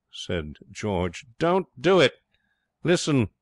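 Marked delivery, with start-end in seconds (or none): 1.4-3.3 high, louder alarmed protest; panicky, emphatic pleading; urgent plea. A narrator's reading. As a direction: desperately talk him out of it. George pleads before the capsize.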